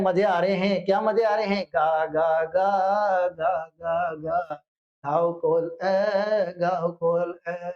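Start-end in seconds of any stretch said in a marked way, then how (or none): 1.6-7.7 low seagull calls that fade toward the end; teacher voices the young seagull's cry again; mock gull cry. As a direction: caw like a young gull, playfully. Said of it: "चिल्ला रहा है".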